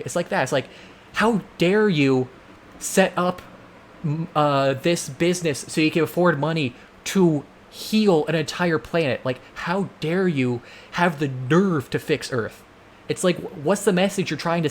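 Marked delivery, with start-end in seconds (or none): 1.1-12.6 drawn-out, sarcastic mock scolding; slow mock outrage. Gamer mocking the Doctor's tirade, slow sarcastic outrage. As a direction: stretch it out to ridicule the lecture. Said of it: "they make a tirade about it of".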